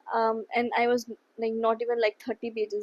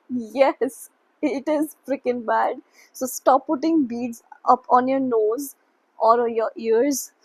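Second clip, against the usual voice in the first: louder, mildly exasperated telling-off; mock scolding parent; 7 dB louder than usual. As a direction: mimic parents laying down the law. Parents scolding son in retold story.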